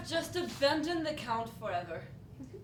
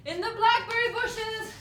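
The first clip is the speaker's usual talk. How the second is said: excited cry; 7 semitones higher, 8 dB louder than usual. Acted. Girl hides from the Count.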